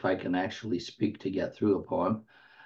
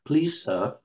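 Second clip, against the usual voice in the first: high, pleading Cockney schoolboy, louder, rising on the question; a hammed-up Cockney orphan begging for more; Cockney accent; 8 semitones higher, 4 dB louder than usual. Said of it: "in a British Cockney accent".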